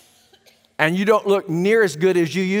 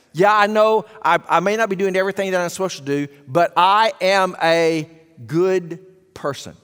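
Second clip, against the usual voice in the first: mock self-justifying mantra. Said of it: "their mantra is, again and again".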